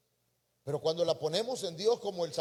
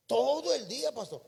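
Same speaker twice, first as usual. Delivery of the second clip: exasperated outburst; 7 semitones higher, 3 dB louder than usual. Retold or imitated. Imita feligrés exasperado.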